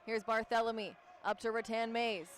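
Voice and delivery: brisk courtside call; live play-by-play. Acted. Play-by-play announcer calling the game for viewers. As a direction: call the action as it happens.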